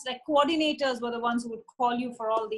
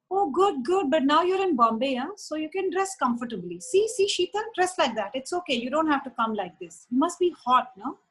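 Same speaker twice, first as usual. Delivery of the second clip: quoting Meher; 4 semitones higher than usual. Retold or imitated. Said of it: "and she goes".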